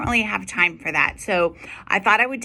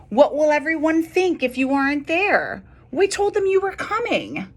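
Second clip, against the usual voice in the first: coaxing father; 8 semitones higher than usual. Acted.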